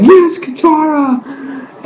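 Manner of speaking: high, elated fan cheer; re-enacted cheer. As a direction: squeal it in delight at a returning favourite. Replays own cheer at show.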